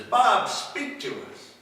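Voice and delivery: a hint of a high, slow healer's command; lightly voiced healer. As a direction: draw it out high like a showman healer. Healer commands stutterer to speak.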